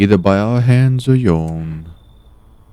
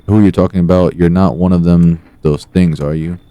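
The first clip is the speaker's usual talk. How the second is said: cocky loud mod voice; Discord mod voice; 6 dB louder than usual. Shown as a demonstration. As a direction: play the smug Discord mod. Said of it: "try to do a Discord mod voice".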